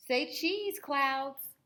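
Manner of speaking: put-on child voice. Ruthie photographing things.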